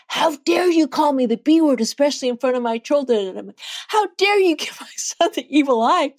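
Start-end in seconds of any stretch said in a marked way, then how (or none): 0.1-3.3 higher, mock outraged retort, imitating the woman; imitating livid woman. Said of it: "she was livid". 3.9-6.1 higher, imitating her own angry snap back; retold angry comeback. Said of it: "I did kind of lose it".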